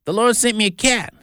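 put-on high, excited little girl; child calling out big news; excited shout. A narrator's reading. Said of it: "she shouted".

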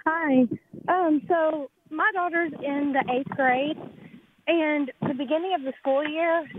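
panting after running to the car; breathless, catching air between phrases; out of breath. Real, not acted. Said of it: "sorry, I'm out of breath".

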